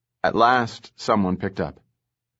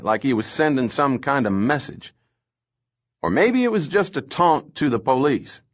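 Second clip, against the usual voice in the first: a raised, lively cop voice relishing the grim details; gruff Southern lieutenant; 3 semitones higher than usual. Acted. Lieutenant Casson briefs the captain about the poison, animated. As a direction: tell it like a jaded cop with a gory story.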